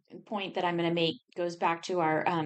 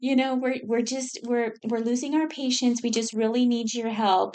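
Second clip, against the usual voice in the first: Mister Rogers voice; 5 semitones higher than usual. Retold or imitated. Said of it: "Mister Rogers or something".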